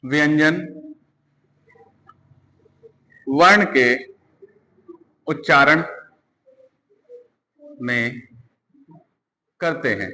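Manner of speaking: slow, word by word with long pauses; teacher dictating slowly; dictation pace. Shown as a demonstration. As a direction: dictate each word for notes. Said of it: "slow dictation".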